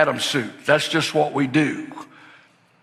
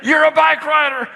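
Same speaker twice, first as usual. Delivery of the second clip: much higher, loud cheer; triumphant shout; 11 semitones higher, 4 dB louder than usual. Retold or imitated. Dad cheering as his daughter rides off, triumphant shout. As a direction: yell it as you let go.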